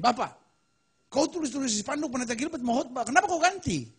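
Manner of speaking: high-pitched, lightly voiced complaint, pitched well above normal; mock angry Papuan man. Papuan man angrily asking the organizer why the preacher was changed, mock indignant. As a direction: play an upset local man accusing the organizer, half-acted. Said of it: "Marah dia".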